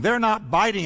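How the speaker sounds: mild irritation, kept moving; lightly exasperated fisherman; irritated Peter. Acted. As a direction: report it with a touch of annoyance. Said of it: "You can almost hear the irritation in Peter's voice".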